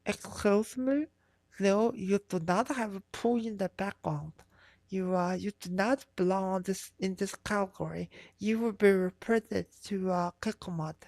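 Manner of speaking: lightly voiced prissy rule enforcer; imitating a troll acting like a mod; mock Reddit mod. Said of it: "trolls behave like Reddit mods, be like".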